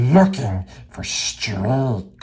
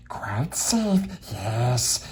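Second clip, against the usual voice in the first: hissed, secretive whisper to himself; Gollum whispering; much slower than usual. Acted. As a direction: whisper it like a creature hugging a secret. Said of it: "he whispered to himself".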